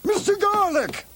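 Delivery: shouting names across the house; calling out. Acted. Calling out for servants.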